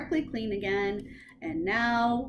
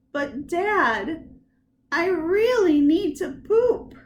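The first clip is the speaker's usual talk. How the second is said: high, loud whine; whiny child pleading; 7 semitones higher, 8 dB louder than usual. Acted. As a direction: beg like a desperate kid.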